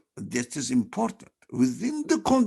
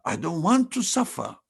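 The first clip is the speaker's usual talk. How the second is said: ordinary talk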